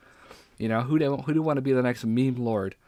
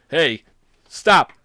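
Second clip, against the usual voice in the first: sudden loud, higher-pitched call to stop; mock rant; 4 semitones higher, 9 dB louder than usual. Host parodying a TikTok rant video, mock rant. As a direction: cut in with a loud, punchy order. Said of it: "a whole rant video of".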